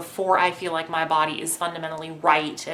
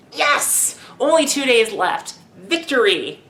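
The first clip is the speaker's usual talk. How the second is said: high gleeful cheer, easing down; mock-victorious exclamation; playful triumph; 5 semitones higher, 3 dB louder, slower than usual. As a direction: celebrate like you've won. Acting out gleeful countdown to surgery.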